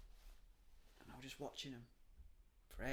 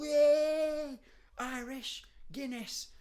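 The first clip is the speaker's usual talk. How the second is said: high, loud mock cheer; high mocking party cheer; mock revellers; 9 semitones higher, 7 dB louder, much slower than usual. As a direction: send up drunk St Paddy's fans. Mocking English St Paddy's revellers.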